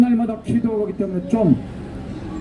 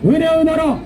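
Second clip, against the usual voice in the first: shrill echoing propaganda broadcast; 3 semitones higher than usual. Real, not acted. Rally chant leader.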